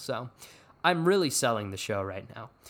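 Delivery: ordinary delivery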